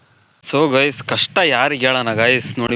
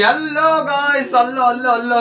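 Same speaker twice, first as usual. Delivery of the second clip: imitating sister vlogging; 9 semitones higher than usual. Brother mocking his sister's vlog intro, high imitation. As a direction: mimic a vlogger's hello in a put-on high voice. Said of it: "vlog ಮಾಡ್ತಾಳೆ ಅಕ್ಕ".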